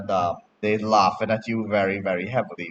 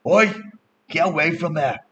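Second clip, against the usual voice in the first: higher-pitched mild yell; acted telling-off, only a little louder; crabby yell; 6 semitones higher, 4 dB louder than usual. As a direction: call out to chase kids away. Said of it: "the crab yells out".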